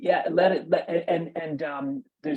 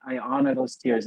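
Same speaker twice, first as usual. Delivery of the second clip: tearing up; 2 semitones higher than usual. Real, not acted. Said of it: "I'm tearing up now".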